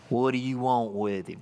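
low, soft leg-pulling question; mock suspicion. Uncle pulling strangers' leg, low mock-suspicious question. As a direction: drop it low, playing suspicious. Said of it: "That's how I said it".

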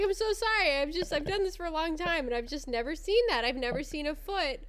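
imitated disbelief, starting high and settling; apologetic astonishment, mildly acted; freaked-out nurse. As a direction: play a flabbergasted nurse, high at first. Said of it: "your nurse kind of freaked out".

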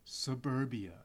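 slow trailer voice with a laugh; movie trailer read, laughing. Acted. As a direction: reread the tagline slowly, laughing. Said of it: "Shall I read it again?".

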